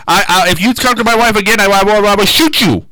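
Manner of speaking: put-on high, quick, stammering accented threat; Hervé Villechaize. Jealous husband threatening a guest star, comic accent. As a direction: imitate a little man's sputtering threat. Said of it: "He had a distinct talking voice".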